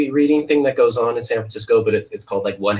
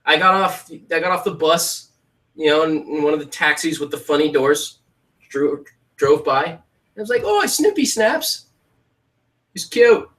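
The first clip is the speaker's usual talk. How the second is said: mock British accent; 7 semitones higher than usual. Shown as a demonstration. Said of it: "I can't do accents at all".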